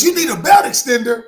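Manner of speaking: loud, incredulous retold question. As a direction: announce it to the whole cabin. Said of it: "she said it loud so everybody could hear it".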